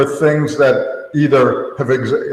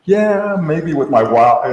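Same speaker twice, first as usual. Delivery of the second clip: high scoffing quote; 5 semitones higher, slower than usual. Retold or imitated. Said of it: "I would have said".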